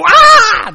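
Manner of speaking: very loud, high scream; play-acted full-voice shriek; demonstrated group scream. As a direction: scream to get little kids joining in. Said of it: "I said".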